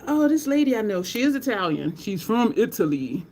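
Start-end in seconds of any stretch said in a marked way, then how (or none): none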